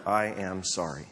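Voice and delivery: slow, low and sincere "I am sorry."; heartfelt regret. Shown as a demonstration. Preacher showing the congregation a heartfelt apology, slow and sincere. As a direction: let "I am sorry." land slowly, meaning every word. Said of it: "communicated in the tone of voice, a heartfelt regret".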